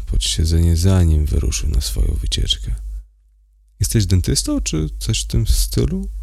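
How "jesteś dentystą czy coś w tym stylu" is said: high rising question, lightly voiced woman; curious question. A narrator's reading. Prostitute asks the driver what he does, rising question. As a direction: ask it with a lifting, curious tone. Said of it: "zapytała".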